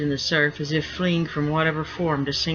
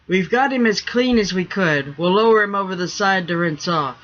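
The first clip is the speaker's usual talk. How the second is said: a touch of a holler, louder; 4 semitones higher, 5 dB louder than usual. Acted. Deckhand hollering up to the quarterdeck, loudly. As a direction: call up to the captain. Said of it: "John John hollered up".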